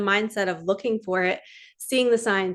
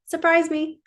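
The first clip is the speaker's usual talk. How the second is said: higher, eager call to the universe; excited plea; 8 semitones higher than usual. Pretend. Vlogger voicing her mantra to the universe, eagerly raised. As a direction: let it lift with eager hope.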